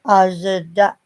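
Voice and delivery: "Asda" split slowly into Az-uh-dah; "Asda" stretched into three syllables; copied mispronunciation. Retold or imitated. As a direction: echo an American's broken-up "Asda". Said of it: "They say Asda".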